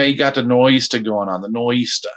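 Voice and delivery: mock Boston accent. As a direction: put on a Boston accent, dropping the Rs. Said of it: "how to say nor'easter in a Boston accent".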